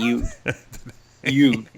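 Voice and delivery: "yuge" mimicked with no H; "yuge", starting on a Y; imitated dropped H. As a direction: repeat "huge" as "yuge", teasing. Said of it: "You said huge if you play the tape back".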